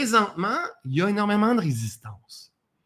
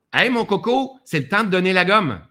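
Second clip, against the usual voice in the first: urgent push; 4 dB louder than usual. Pretend. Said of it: "le stress était là pour nous dire".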